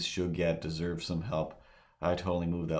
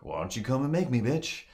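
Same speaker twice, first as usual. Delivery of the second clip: mock old lady yell; 5 semitones higher than usual. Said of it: "the old lady yells out".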